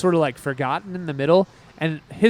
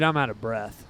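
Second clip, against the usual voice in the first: ordinary talk, nothing marked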